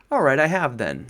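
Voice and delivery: loud, defiant outburst. A narrator's reading. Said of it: "in a much louder voice".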